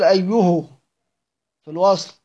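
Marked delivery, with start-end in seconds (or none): 0.0-0.6 أيه read "ayyuhu", ending in u; damma on the ha. Shown as a demonstration. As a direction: say أيه with a u after the h. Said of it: "لأن ابن عامر بيقول". (أيه بضم الهاء)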